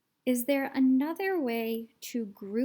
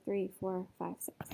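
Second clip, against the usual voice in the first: whispering; 3 semitones lower, 6 dB quieter than usual. Shown as a demonstration. Teacher counts down softly.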